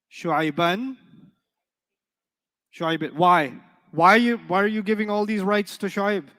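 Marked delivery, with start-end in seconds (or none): 3.9-6.2 mock indignation. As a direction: playfully scold the class for giving rights. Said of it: "mock indignant teacher".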